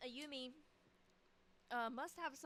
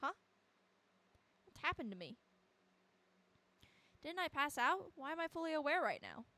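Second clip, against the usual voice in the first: higher-pitched acted bewilderment; mildly panicked disbelief; alarmed confusion; 5 semitones higher, 4 dB louder than usual. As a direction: question it in rising alarm. Acts confused character waking up trapped.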